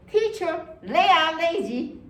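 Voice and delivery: high, slow tattling to the teacher; whiny student complaint. Retold or imitated. Student tattling to the teacher about lazy classmates, whiny. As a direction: tell on them, whining.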